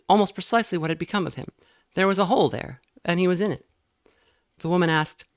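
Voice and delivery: ordinary delivery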